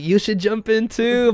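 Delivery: high, drawn-out imitation of urging; coaxing. Local dude telling Riley to jump, mock coaxing. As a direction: mimic someone talking a friend into it.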